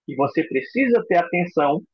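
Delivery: usual speaking voice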